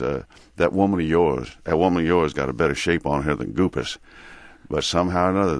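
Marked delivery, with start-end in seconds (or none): 0.6-1.6 Mississippi accent. Shown as a demonstration. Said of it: "Big Daddy says". 1.6-4.0 Mississippi accent. Shown as a demonstration. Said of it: "Big Daddy says".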